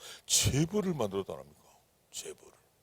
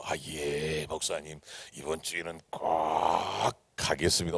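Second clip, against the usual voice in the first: new member's phone reply; 9 semitones lower than usual. Retold or imitated. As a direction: promise meekly in a lowered voice. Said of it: "전화하면 이렇게". (낮은 목소리로 순순히 대답하듯)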